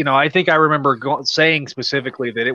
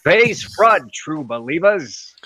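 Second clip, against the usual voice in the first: fan impression; slower than usual. Greeting fans with a catchphrase, in a put-on impression voice. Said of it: "That actually wasn't a bad fan impression".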